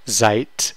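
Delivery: seid ending in a clear T sound; D pronounced as T. Shown as a demonstration. Teacher showing the T ending, seid with final D as T. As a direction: say seid as if spelled "seit". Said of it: "It's pronounced like a T".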